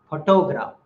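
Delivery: photograph with the first syllable stressed; stress on PHO. Shown as a demonstration. Teacher showing English word stress, PHO stressed in photograph. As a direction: hit PHO in photograph, then ease off. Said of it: "stress is on the first syllable".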